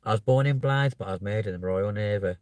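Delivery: lightly voiced navy recruit from an advert; mock navy advert testimonial; imitating navy advert. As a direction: put on a touch of a recruitment-ad voice. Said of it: "like some people would say".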